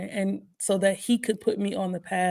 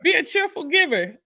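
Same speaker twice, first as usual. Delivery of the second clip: mocking preachy voice; 10 semitones higher than usual. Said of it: "they be like".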